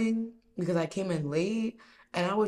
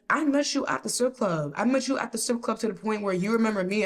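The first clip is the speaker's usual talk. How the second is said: raised-pitch imitation of an insistent customer; insistent arguing; 4 semitones higher, 3 dB louder than usual. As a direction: argue the point in a higher voice.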